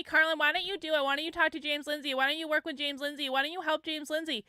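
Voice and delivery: quick imitation of pestering commenters; mocking nagging. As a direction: rattle off their questions without a breath. Mimicking pestering commenters, rapid questions.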